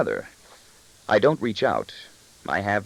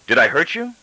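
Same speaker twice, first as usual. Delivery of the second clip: demand; 8 semitones higher, 5 dB louder than usual. A narrator's reading. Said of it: "I demand".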